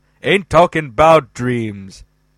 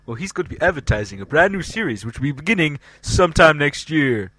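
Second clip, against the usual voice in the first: sexy voice; faster than usual. Acted. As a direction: purr it like a sultry host. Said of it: "What is this sexy voice doing".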